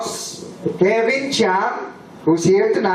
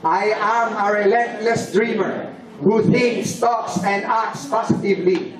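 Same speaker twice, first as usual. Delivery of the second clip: recited pledge. Acted. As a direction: recite it like a solemn creed. Leads a group declaration.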